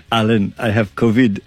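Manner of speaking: lightly imitating the guest's French accent; teasing mock French accent, laughing into it; imitated French accent. Host teasingly mimics his guest answering the phone, mock French accent. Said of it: "I'm doing your accent".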